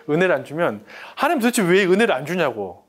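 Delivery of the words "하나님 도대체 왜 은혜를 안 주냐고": loud, raised complaint at God; angry prayer. Retold or imitated. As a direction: rant at God like a sulking child. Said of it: "막 화를 내는데".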